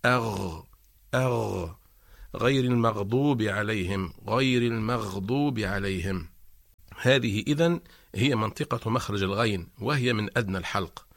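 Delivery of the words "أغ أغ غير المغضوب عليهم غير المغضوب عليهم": غير with a full open غ, slowed; rolled back-tongue غ in المغضوب; slow open غ drill; ghain demo. Shown as a demonstration. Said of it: "فنقول".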